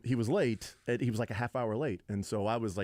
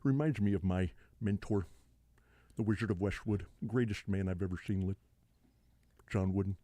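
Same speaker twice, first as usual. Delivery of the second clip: lightly put-on, lower marvelling voice; a hint of rambling sportscaster; Bill Walton; 3 semitones lower than usual. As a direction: marvel in a mild slurred impression. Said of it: "then we need Bill Walton sitting somewhere".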